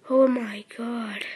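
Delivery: breathy whispered oh my god, slowed; nervous whisper. Real, not acted. First-time vlogger whispering to viewers, nervous. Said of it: "I'm nervous".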